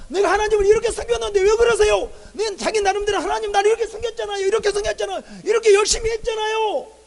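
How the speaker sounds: loud, high-pitched indignant pleading; acted protest. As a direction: argue your case to God, insisting on your effort. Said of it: "라고 말할 수 있을 거예요". (억울해하며 큰 소리로 항변)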